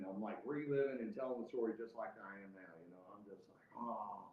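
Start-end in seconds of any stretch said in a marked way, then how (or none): 3.8-4.3 understated retold rant; muted imitation of fuming. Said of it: "I am fucking fuming".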